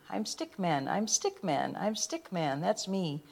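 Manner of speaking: soft, lonely little refrain; sad and quiet. Acted. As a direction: say it softly, lost and sad.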